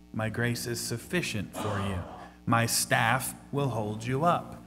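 calm reassuring God. Acted. Voicing God's answer to Paul.

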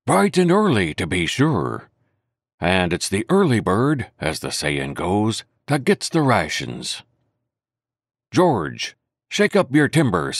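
a hint of a cheery pirate, some lines slowed; lightly voiced sailor chatter, pleased with himself; old John's voice. Silver chattering to the doctor, lightly voiced cheery pirate. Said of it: "Quite the old John in voice, manner, and expression".

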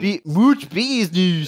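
put-on slow, high, laughing South African accent. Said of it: "Classic South African accent".

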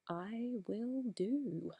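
slow breathy whisper. Real, not acted. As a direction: drop to a whisper, slowly. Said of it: "I have to whisper a little bit".

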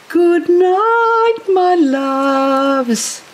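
high, drawn-out singsong farewell; cooing good night. Pretend. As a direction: sing out a bedtime farewell to beloved plants. Bids her plants good night.

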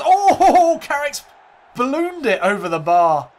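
high squeal of laughter over the miss; laughing disbelief. Real, not acted. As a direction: laugh it out, pitch shooting up. Missed penalty, laughing commentary.

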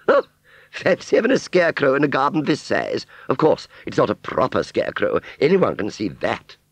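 high, loud, airs-and-graces fairground lady; Aunt Sally's grand voice. Acted. Aunt Sally boasting to Wurzel of royal friends, high snobbish voice.

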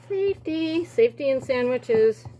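mock movie-line delivery; movie quote. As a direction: echo the film line playfully. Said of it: "That line is from Disney's The Kid".

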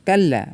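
কাল্লা with the ল held double; doubled lam. Shown as a demonstration. Teacher showing tashdid, doubled ল in কাল্লা. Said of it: "লামটা দুইবার পড়ছি".

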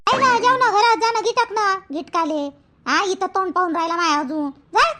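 irritated mother sending son off; sharp, annoyed orders to go eat; angry scolding. Acted. Mother angrily ordering son inside. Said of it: "एवढी कोण रागात बोलून राहिली".

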